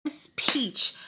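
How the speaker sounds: hushed reveal; secretive aside; whisper. Shown as a demonstration. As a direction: lean in and whisper it. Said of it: "unvoiced whisper".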